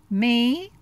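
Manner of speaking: quick, anxious protest; fretting. Acted. Charlie Brown to Lucy, nervously protesting he can't direct. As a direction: rush it out in a worried tumble. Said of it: "Charlie Brown fretted".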